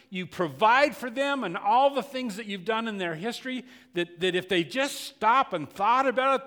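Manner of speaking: loud, high, insistent preacher voice; preaching at full force. Acted. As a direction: hammer the charges home. Preacher voicing Elijah's complaint.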